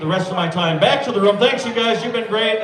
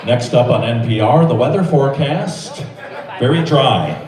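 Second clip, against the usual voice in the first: radio announcer; 4 semitones lower than usual. Pretend. Continues NPR announcer bit.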